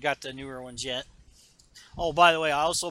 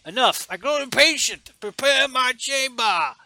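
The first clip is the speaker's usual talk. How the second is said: higher, louder commanding Vader; impatient Vader; 9 semitones higher, 9 dB louder than usual. Retold or imitated. Vader ordering his chamber prepared, loud and impatient. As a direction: bark the order.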